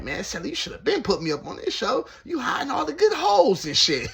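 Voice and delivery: high, loud mock whine of complaint; excited cellmate. Cellmate scolding the narrator for hiding the show, high mock complaint. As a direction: whine loud and high like you were cheated. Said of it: "He like".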